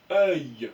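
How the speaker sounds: œil lancé fort, bien articulé; lire œil. Shown as a demonstration. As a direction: montrer œil à la classe. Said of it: "Je vous laisse essayer". (œil prononcé fort et net)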